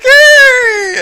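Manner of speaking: shrill high cheering yay; mock crowd cheer. Mocking the crowd's cheer, a high shrieked yay. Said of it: "everybody's like".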